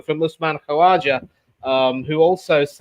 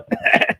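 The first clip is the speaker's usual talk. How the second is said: fake pointed cough. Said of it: "Nasty cough you got there".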